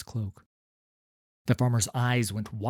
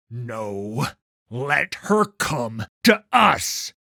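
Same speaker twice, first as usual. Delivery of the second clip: cold command; 2 semitones higher, 9 dB louder, much slower than usual. Acted. Vannis stops the boy.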